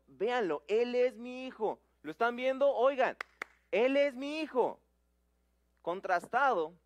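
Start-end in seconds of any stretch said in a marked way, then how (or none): 0.1-4.8 louder, calling everyone to look at him; proud loud announcement. Acted. God calling the crowd to look at his son, loud. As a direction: proclaim it so the whole crowd hears.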